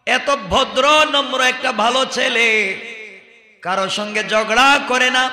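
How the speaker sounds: ringing, declaimed sermon storytelling; impassioned preaching. Acted. Preacher telling of the Prophet's astonishment, impassioned. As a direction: proclaim each phrase to the congregation. Preacher narrates at full force.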